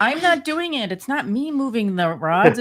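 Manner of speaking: imitating panicked friend. Woman mimicking her friend denying she moved the rods, panicked and high. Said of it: "in her face, she's like".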